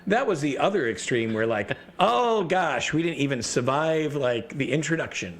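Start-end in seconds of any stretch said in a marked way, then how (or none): 2.0-5.4 mock dismay. Players dismayed at dying.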